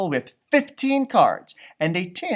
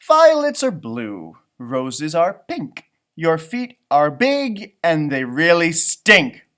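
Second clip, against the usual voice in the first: teasing poem; 7 dB louder, slower than usual. Acted. Child's teasing poem read out.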